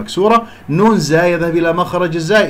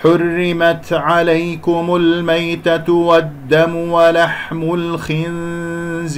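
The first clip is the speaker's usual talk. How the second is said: slow tajweed chant, vowels drawn out; Quran recitation; 2 semitones higher, much slower than usual. Shown as a demonstration. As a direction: recite slowly, melodic and measured. Teacher recites the verse. (تلاوة مجوّدة بطيئة)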